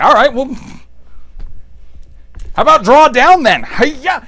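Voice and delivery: hammed-up high villain taunt; lightly voiced cartoon villain challenge; mock villain voice. Triclops taunting Skeletor in a high mock voice.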